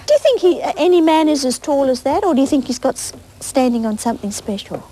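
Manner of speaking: lively storybook reading; bright picture-book narration; reading to children. Acted. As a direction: read it to the little ones.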